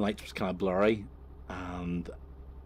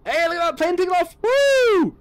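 much higher, louder, fake cheerful distraction; mock distraction; 13 dB louder than usual. Homeowner pretending to spot a plane, mock cheerful shout. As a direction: point at the sky to change the subject, hammed up. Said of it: "he starts saying".

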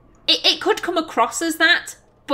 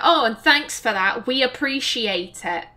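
sarcastic. Shown as a demonstration. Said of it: "Number one sounds very sarcastic".

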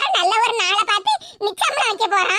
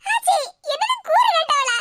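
tearful, hurt protest; crying; 4 semitones higher than usual. Acted. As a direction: whine back through tears, pitched up. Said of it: "கண்ணீரை வடிச்சிட்டு கிடக்கா". (அழுகையோடு முறையிடுவது)

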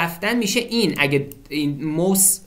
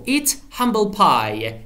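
slow model reading; 3 semitones higher, much slower than usual. Shown as a demonstration. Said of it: "teacher models the idiom slowly".

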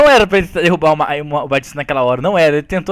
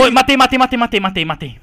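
excited shouting; 4 semitones higher than usual. Real, not acted. Gamer yelling after killing the intruder. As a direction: shout matei over and over after the kill.

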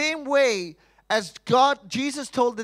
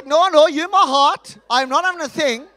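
clingy woman; 7 semitones higher, 8 dB louder than usual. Retold or imitated.

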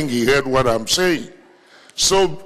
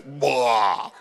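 mock burp, drawn out and lower; imitated belch; 4 semitones lower, 4 dB quieter than usual. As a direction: mimic a big belch after drinking. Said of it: "he gave me a big belch".

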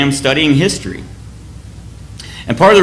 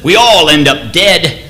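William Wallace's rallying speech. Retold or imitated. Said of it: "He says".

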